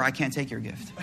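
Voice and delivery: soft, breaking into a laugh mid-line; laughing through it. Retold or imitated. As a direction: let the laugh take the refusal. Sheikh refusing, laughing.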